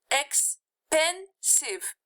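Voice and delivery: Expensive, drawn out slowly, falling at the end; slow, clear classroom pronunciation of Expensive; slow syllable demo. Shown as a demonstration. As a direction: say Expensive slowly for students to count. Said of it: "Three, right?".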